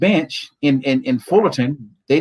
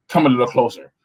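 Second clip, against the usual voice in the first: deep preacher voice; 3 semitones lower than usual. Retold or imitated. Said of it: "this deep preacher voice".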